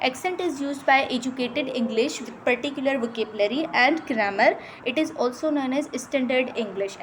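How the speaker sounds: slow, careful reading of English definitions; reading from slide. Shown as a demonstration. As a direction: read each word out slowly, like dictation. Reads slide text aloud. (धीरे-धीरे slide से पढ़ना)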